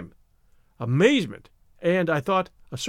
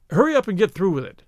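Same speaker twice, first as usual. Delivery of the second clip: impatient; 4 dB louder than usual. Acted. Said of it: "I jerked impatiently".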